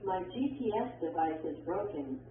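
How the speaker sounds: statement tune, falling on "broken"; falling intonation. Shown as a demonstration. Textbook example of a statement, falling intonation. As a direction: let the voice drop at the end on "broken". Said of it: "arrows that show falling intonation".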